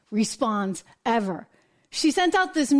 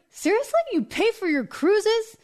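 mock disbelief; 5 semitones higher than usual. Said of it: "And you're like".

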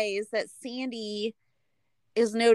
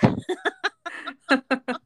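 laugh; 8 semitones higher than usual. Real, not acted. Laughs after imitation.

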